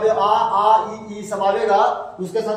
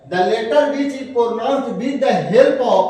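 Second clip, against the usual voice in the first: very slow, spaced words; slow dictation; 4 dB louder, much slower than usual. Shown as a demonstration. Teacher slowly dictating the definition once more. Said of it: "repeats definition slowly".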